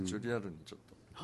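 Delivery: quick, quiet aside after shouting; real, serious tone. Real, not acted. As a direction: drop the joke and ask in earnest. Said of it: "リアルなんだ、怖っ。".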